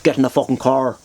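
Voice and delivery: menacing Northern Irish order; mock threat in a Northern Irish accent. Shown as a demonstration. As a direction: put on a hard-man Northern Irish accent. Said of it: "the Northern Irish accent".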